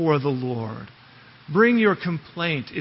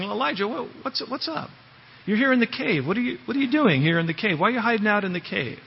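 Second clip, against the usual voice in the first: higher, fast, lightly voiced caring God; a light, higher God gently asking why he's hiding; the Lord asking gently; 5 semitones higher, faster than usual. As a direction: coax him to talk like a concerned friend. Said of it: "He's saying".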